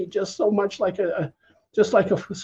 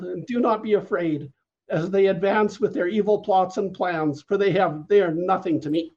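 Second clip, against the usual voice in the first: prophetic word. Retold or imitated. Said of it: "he came and he said".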